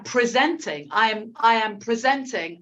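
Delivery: "presenting" as pre-ZENT-ing; stressed second syllable. Shown as a demonstration. Teacher shows the verb "presenting", stress on the middle syllable. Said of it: "listen to the way I say".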